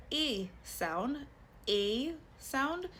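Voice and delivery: "A" said as a closed ay; acute A sound. Shown as a demonstration. Teacher asking learners to hear the acute accent, closed A sound. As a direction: sound out A as a clear ay. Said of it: "then it's an acute accent".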